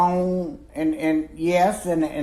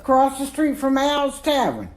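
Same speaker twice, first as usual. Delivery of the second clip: emphatic; 10 semitones higher, 4 dB louder than usual. Real, not acted. Emphatic punchline.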